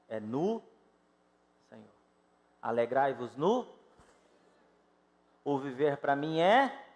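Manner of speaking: ordinary delivery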